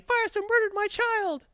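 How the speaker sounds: high-pitched accusing cry; crowd yelling. Retold or imitated. Crowd accusing Firestorm over a child, mock high yell. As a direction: cry it out as one of an outraged crowd. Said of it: "The crowd starts yelling".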